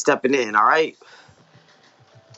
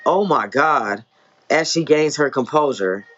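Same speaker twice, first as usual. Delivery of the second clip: story narration. A narrator's reading. Author reading own novel to listeners, measured story narration. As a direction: read it as an author narrating dialogue and action.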